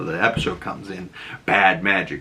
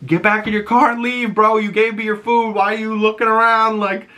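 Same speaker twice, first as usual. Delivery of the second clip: much higher, sassy shoo-away; annoyed brush-off; 12 semitones higher than usual. Retold or imitated. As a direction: get rid of him, impatient. Riri shoos the delivery guy.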